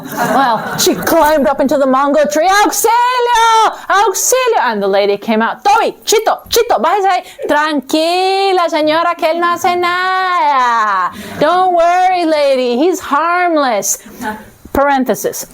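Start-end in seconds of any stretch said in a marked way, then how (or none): 2.5-4.6 high, drawn-out shouts of auxilio; crying for help. Acted. Death stuck up a mango tree shouting for help. 5.6-14.0 lady calling off dogs, higher voice; breezy owner reassuring; higher-pitched dog owner. Acted. Dog owner calming Death about her dogs, high breezy voice.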